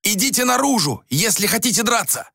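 high-pitched, exasperated command; acted shouting innkeeper; shouted order. A narrator's reading. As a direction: yell at brawlers to stop. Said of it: "закричал он".

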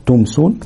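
"تمسون" with a distinct m before s; clear meem. Shown as a demonstration. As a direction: demonstrate an unmerged meem in "تمسون". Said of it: "تبقى واضحة كده مظهرة".

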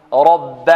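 رب with a full, thick ر; heavy ra. Shown as a demonstration. Teacher models the word, heavy ra. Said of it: "الراء هنا مفخمة".

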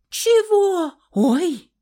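high, loud startled yelp; loud high surprised cry. A narrator's reading. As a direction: jump at the sight of claws. Heroine sees her claws.

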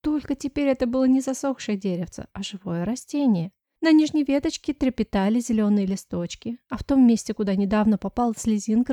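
ordinary delivery

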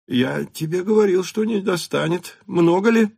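put-on lightly amused old count; cheerful. A narrator's reading. Count jokes with his son, jovial and high. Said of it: "в особенно весёлом духе".

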